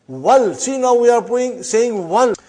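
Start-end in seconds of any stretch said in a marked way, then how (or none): 0.1-0.5 Wal run straight from w into l; hamza dropped. Shown as a demonstration. Teacher showing why hamza is not pronounced, joined-up Wal. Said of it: "We did not pronounce hamza". 2.1-2.3 wal run straight from w into l, higher; hamza dropped. Shown as a demonstration. Teacher showing the class a silent hamza, joined-up wal. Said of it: "We did not pronounce hamza".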